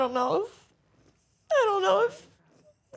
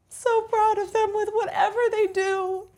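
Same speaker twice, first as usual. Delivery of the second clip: crying; 4 semitones higher, 4 dB louder than usual. Real, not acted. Tearful talk about her mom.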